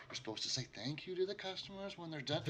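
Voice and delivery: put-on the girl quietly scolding the barkeep; quiet mutter. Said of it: "mutter very quietly in his ear".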